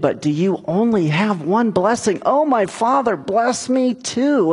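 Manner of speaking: mildly hammed-up desperate appeal; acted pleading. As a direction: beg a father, retold with rising pitch. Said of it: "Esau pleaded".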